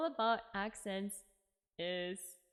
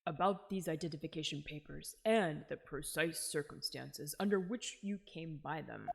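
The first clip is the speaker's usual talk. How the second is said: lightly voiced, lower-pitched interrogator; stern questioner; 5 semitones lower than usual. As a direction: question a witness formally, pitched down.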